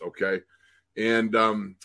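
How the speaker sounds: normal talking voice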